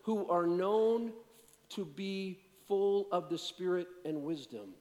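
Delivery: preacher pointing at "known" in the text; stress on known. Shown as a demonstration. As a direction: lean hard on "known", then land "full". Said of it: "But notice what it says".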